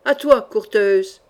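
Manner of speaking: loud, lunging challenge; fierce battle cry; cried out. Acted. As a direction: call the next foe on. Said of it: "cria Passavant".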